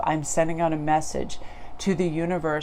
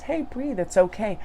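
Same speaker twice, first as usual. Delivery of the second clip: soft inner voice; 4 semitones higher than usual. Retold or imitated. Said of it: "that inner temple says".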